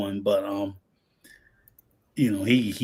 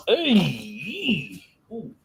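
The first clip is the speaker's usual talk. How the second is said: cramp pain cry; 7 semitones higher than usual. Real, not acted. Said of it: "What, you got a cramp?".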